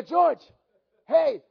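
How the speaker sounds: excited phone greeting; excited calling. Retold or imitated. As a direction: call out to a friend with good news.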